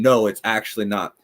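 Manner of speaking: firm refusal at normal volume; mildly forceful. Retold or imitated. What she could have said openly to the speaker, mildly forceful. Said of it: "not being forceful and saying".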